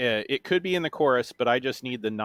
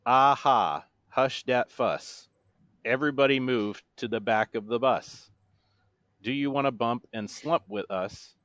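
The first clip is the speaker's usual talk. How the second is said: deadpan monotone. Shown as a demonstration. Quizmaster reads a hip-hop chorus clue, in a monotone. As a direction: rap lyrics recited in measured phrases. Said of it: "said in my best monotone voice".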